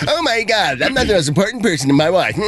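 mock whiny crybaby. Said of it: "be a little cry bitch about it".

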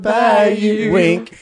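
hammy sappy pickup line; overdone lovesick crooning; mock romantic.

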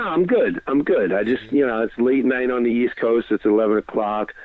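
ordinary talk, nothing marked

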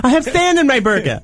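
high squeaky voice. Acted. Joke quote of athlete.

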